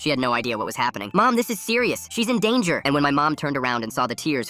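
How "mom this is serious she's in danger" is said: put-on high, alarmed kid's voice; urgent warning. A narrator's reading. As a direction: press mom urgently, pitched high. Child urgently warns mom.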